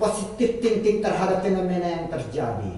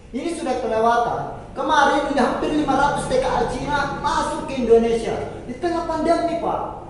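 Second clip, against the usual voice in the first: heated complaint; 4 semitones higher than usual. Real, not acted. Heated debate over government policy.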